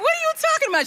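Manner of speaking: high-pitched mock protest; retold incredulous comeback; indignant disbelief. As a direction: squeak it out, acting offended. Retold indignant reply to grandmother.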